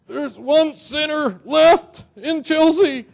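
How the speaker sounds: slow, high, loud Southern wail; hammed-up Southern revival preacher, drawing out every word; Southern preacher accent. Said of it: "a southern accent always comes".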